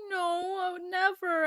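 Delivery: mildly imitated soft protest; soft denial. His reply to the same question.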